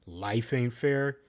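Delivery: drawn-out mocking of her line; mock dismissive drawl; slow dismissive quote. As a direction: drag it out, dismissive. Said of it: "She has to change her attitude".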